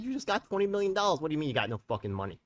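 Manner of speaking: loud, high, outraged retelling of his reply; angry retort. Retold or imitated. To the official on the phone, a loud outraged retort. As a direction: throw the question back, furious. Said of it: "I said".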